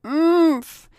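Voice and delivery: high, loud muffled groan through a gag; muffled gagged moan. Acted. Ryan protesting to Chelsea, gagged, loud muffled groan. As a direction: groan hard against a gag. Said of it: "he moaned incomprehensibly through the gag".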